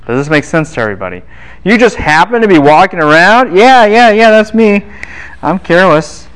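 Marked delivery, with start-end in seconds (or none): 1.6-6.3 mock young man. Teacher mocks the young man.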